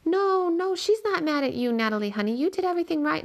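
father holding back tears to calm his daughter; gritty, upset voice. A narrator's reading. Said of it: "his voice gets gritty".

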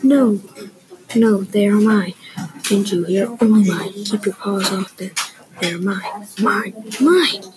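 loud possessive yelling; flipped his wig. Acted. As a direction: shout like a spoiled pug guarding toys. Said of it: "Pig flipped his wig".

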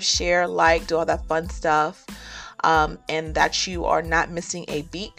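ordinary delivery

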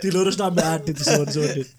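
laughing hard while talking; words through a laughing fit. Real, not acted.

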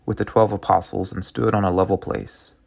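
measured, solemn reading of scripture; a lector reading to the congregation. Acted. Reads the Gospel passage aloud.

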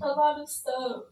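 put-on high whimpering baby; whiny fake crying. Girlfriend whimpers to boyfriend, high and whiny. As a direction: whimper it like a sulking child. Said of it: "handle these adults like children".

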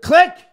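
high, loud "click" sound; mock phone click as he hangs up on the agent. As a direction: pop the hang-up noise. Imitating hanging up phone.

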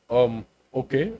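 slow, baffled "um, okay"; awkward agent. Retold or imitated. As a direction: stall in awkward confusion. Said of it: "They're like".

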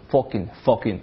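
fucking with a rounded "o" vowel, "focking"; Bath accent. Shown as a demonstration. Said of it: "把那个啊发成了哦".

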